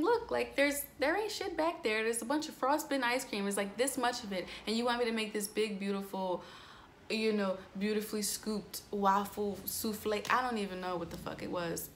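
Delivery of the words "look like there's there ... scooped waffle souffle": exasperated retort. Retold or imitated. Server snapping back at the angry boss over ice cream. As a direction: argue back, fed up, voice pitched up. Retelling her reply to the boss.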